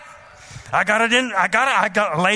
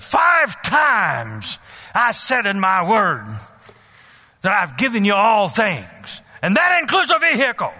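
stern voice; slower than usual. Retold or imitated. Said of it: "stern voice".

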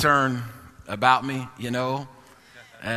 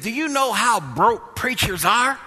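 imitating dad; 9 semitones higher, slower than usual. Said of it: "He told me, I never forget".

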